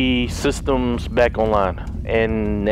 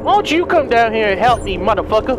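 angry yell; 7 semitones higher than usual. Real, not acted. Yelling at enemy in game.

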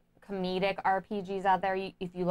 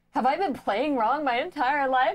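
bewildered; 5 semitones higher, 3 dB louder than usual. Retold or imitated. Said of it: "I have a completely new perspective".

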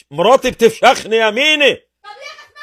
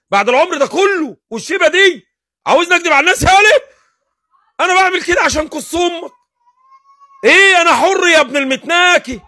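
angry; 5 semitones higher than usual. Real, not acted. Escalating shouting at caller.

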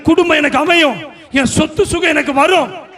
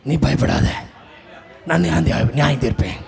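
Jesus speaking; 11 semitones lower, 4 dB quieter than usual. Acted. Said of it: "அதே இயேசு மூலமா பேசுறாரு".

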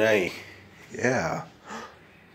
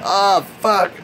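startled shout; 10 semitones higher, 5 dB louder than usual. Real, not acted. Startled curse.

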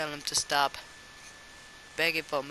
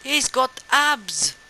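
shocked shout; 10 semitones higher, 10 dB louder, much slower than usual. Retold or imitated. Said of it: "and I'm like".

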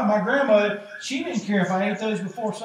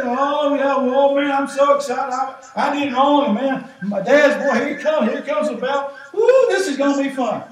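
put-on laughing, sarcastic kid glad his dad is coming; mock excited kid; 3 semitones higher, 3 dB louder than usual. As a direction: ham up a kid pretending a spanking will be fun. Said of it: "I never had that kind of attitude".

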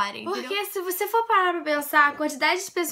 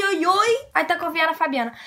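mock youtuber oi; 3 semitones higher, 3 dB louder than usual. Vlogger imitating a fan greeting. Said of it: "Você fala oi".

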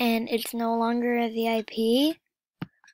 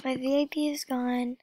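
quiet lament; 3 dB quieter than usual. Real, not acted. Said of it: "so sad".

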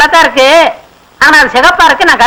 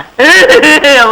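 mock sobbing. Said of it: "ஏன்டா அழுகுற?".

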